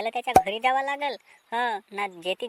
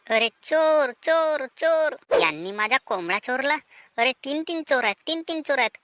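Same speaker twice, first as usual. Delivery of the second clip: raised alarm cry; calling thief. Acted. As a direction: shout for help at the thieves. Owner discovers thieves, calls out.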